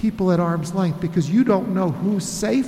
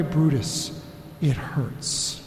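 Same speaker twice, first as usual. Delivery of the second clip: hushed ache; 5 semitones lower, 7 dB quieter, much slower than usual. Acted. Pastor echoes pain of betrayal.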